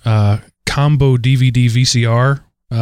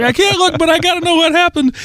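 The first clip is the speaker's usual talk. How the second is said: put-on much higher child voice, scared but curious; father mimicking his mesmerized daughter, much higher; little girl torn. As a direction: play a toddler peeking through her fingers. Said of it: "and like".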